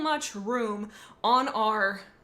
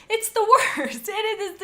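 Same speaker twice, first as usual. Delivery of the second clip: higher, louder, laughing through it; 10 semitones higher, 7 dB louder than usual. Real, not acted. Griping about second Costco trip, laughing. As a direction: laugh out the complaint.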